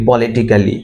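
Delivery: "politically" with "ka" sounded before "lee"; politically mispronounced. Shown as a demonstration. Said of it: "আমরা সবাই বলি". ("politically" ভুল উচ্চারণে "পলিটিক্যালি")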